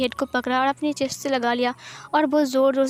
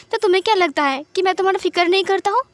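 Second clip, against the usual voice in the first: higher, faster, hurt and exasperated; upset outburst; 5 semitones higher, 3 dB louder, faster than usual. Acted. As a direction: blurt it out fast, stung that he doubts you. (आहत होकर तेज़ और ऊँची आवाज़ में)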